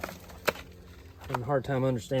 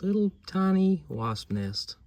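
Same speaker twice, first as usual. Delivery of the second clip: out of breath; 8 semitones higher, 5 dB louder, slower than usual. Real, not acted. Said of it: "And now I'm out of breath".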